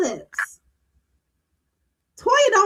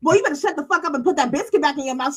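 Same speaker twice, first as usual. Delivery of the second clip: rapid-fire retold telling-off; quick, forceful mock order; full-chested order; faster than usual. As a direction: rattle off the scolding quote. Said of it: "She said that with her whole ass chest".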